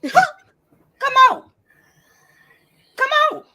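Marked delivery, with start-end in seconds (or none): 0.0-1.5 laughing. Real, not acted. Laughing taunt at chat.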